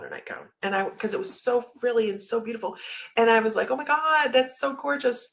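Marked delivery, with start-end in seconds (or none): 3.7-5.3 high, put-on gushing; gushing deflection. Nail technician admiring client's nightgown to change subject, gushing deflection. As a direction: gush to steer the talk elsewhere. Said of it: "Change the subject, right? Deflection".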